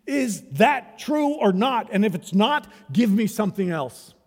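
emphatic challenge. Real, not acted. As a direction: demand an answer from them. Preacher challenges the congregation.

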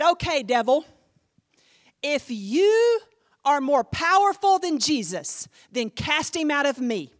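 loud, forceful challenge; commanding the devil. Retold or imitated. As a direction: throw down a dare to the devil.

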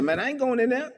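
high-pitched indignant balking; angry refusal. Acted. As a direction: refuse like a sulking brother. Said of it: "the older brother was angry".

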